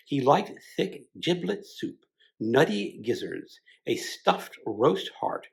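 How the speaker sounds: measured audiobook reading of the novel; story narration. A narrator's reading. Reading Ulysses aloud to fellow readers, story narration. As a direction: read it like a careful audiobook narrator. Reads Ulysses chapter four.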